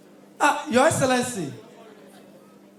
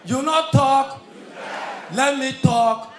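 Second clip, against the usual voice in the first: shouted punchline; 5 dB louder, slower than usual. Acted.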